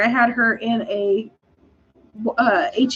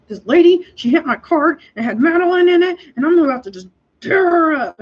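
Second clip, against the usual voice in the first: furious retelling; 5 semitones higher than usual. Retold or imitated. Furious call to husband Eddie.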